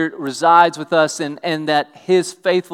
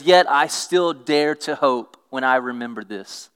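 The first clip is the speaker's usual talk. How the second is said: scripture reading. Acted. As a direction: read the promise out to the church.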